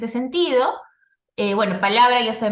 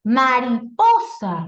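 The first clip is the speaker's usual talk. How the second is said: syllable by syllable; 4 dB louder, much slower than usual. Shown as a demonstration. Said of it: "reconocer las sílabas".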